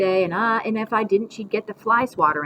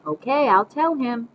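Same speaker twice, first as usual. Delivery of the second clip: lightly acted phone shock, raised voice; pretend phone call; 8 semitones higher, 5 dB louder than usual. A narrator's reading. Grandma faking Mom's ultimatum on the phone, play-acting. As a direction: repeat the imaginary caller's threat aloud. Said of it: "pick up the phone again and say".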